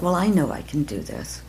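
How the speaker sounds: usual speaking voice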